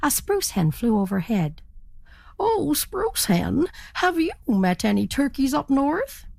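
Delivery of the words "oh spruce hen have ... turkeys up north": high, rising, hopeful question; eager turkey. Acted. Turkey eagerly asks the ferry captain, pitched high. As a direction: ask hopefully, climbing high.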